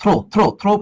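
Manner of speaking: "throw" repeated distinctly with an O vowel; pronunciation demo. Shown as a demonstration. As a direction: model "throw" three times, rhyming with "go". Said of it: "উচ্চারণটা কি বলতো".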